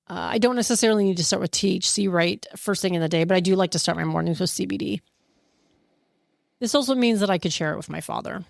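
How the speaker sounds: fast, wired coffee buzz; too much caffeine. Real, not acted. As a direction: rattle it off over-caffeinated. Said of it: "I'm flying pretty high".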